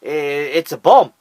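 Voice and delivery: slow deadpan calm; calmly stated bomb line. Retold or imitated. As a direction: say it coolly, slowly. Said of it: "calmly turned around and says".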